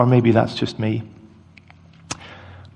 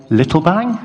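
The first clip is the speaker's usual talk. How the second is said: higher, hopeful rising question; toddler bargaining; 6 semitones higher, 3 dB louder than usual. Retold or imitated. Toddler bargaining with dad after being told no, hopeful question. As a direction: imitate a small child angling for a compromise. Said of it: "instead, he said".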